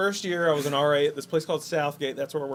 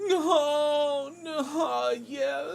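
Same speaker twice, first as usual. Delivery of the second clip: imitating moaning; 10 semitones higher, 3 dB quieter, much slower than usual. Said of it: "it sounded like she was screaming".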